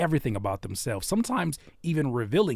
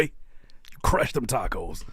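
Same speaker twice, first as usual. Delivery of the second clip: slow drawn-out; 3 semitones lower, much slower than usual. Retold or imitated. Repeats the phrase very slowly.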